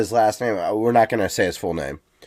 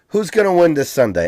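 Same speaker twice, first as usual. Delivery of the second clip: higher-pitched Chicago host voice; Chicago superfan; 6 semitones higher than usual. Retold or imitated. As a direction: ask it in a Chicago accent. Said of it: "in this S N L skit".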